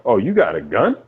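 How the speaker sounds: mocking 911 operator. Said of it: "the nine one one chick is like".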